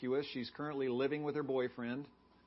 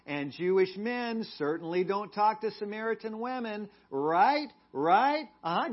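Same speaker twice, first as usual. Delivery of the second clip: condescending and mocking, rising louder toward the end; sarcastic sassy retort, growing louder and higher; sassy, snarky woman; 4 semitones higher, 3 dB louder than usual. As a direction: talk down to him like he's brainless. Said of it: "This woman had some sass".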